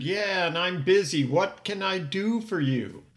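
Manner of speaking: gruff impatient answer on the office phone. Retold or imitated. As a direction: brush off the caller, clearly annoyed. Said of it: "In a gruff voice".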